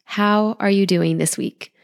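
blocked nose from being sick; nasal, stuffed-up voice. Real, not acted. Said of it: "Excuse my somewhat nasal voice".

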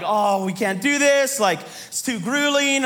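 slow, groaning complaint; lightly acted defeat; mock discouragement. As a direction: drag it out like a worn-out quitter. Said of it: "discouragement on their face".

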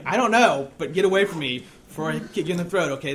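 playing up the grump for the story; retold grumpy outburst. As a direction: act out a testy brush-off. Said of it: "I was angry, I was grumpy".

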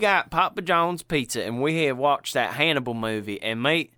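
lightly voiced Southern fella telling a story; a touch of Southern storyteller. Cohost playing a Southern fella recalling a scary movie, light Southern voice. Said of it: "I like to do the Southern fella".

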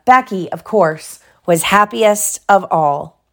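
animated storybook reading; lively bedtime-story voice; story narration. A narrator's reading. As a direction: read aloud to a child, lifting the characters' lines. Reads story to child.

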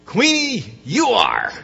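a lightly voiced magic mirror; flattering mirror voice. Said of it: "the mirror always says back".

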